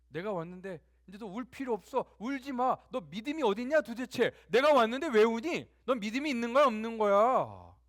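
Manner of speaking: loud, high, exasperated rebuke; acted scolding. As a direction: build to a shouted reprimand, stretching the ending. Acts Jesus scolding weeping Mary.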